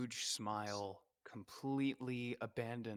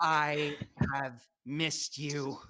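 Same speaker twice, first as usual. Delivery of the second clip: tender reunion; 4 semitones higher, 5 dB louder, much slower than usual. Acted. Azure reunites with sister.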